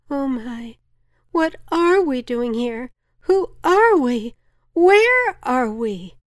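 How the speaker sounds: stretched-out terror at the big questions; freaking out. A narrator's reading. Villagers panic about who they are, frightened wail. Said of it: "began to freak out".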